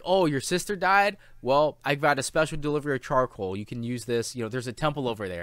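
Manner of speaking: put-on a cheerful vendor offering charcoal to a grieving boy, breezy and oblivious; cheerful charcoal seller. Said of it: "It's like".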